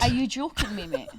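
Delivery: laughing in disbelief; can't believe it, laughing. Real, not acted.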